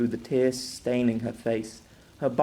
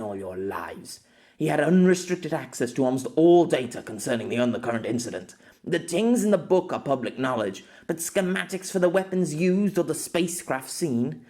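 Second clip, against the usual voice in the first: lightly voiced, emphatic expert; authoritative woman doctor; 3 semitones higher than usual. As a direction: lecture the inspectors with some authority.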